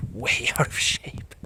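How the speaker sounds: breathless laughing admission; winded, wheezing it out with a laugh; out of breath. Real, not acted. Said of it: "I'm just resting".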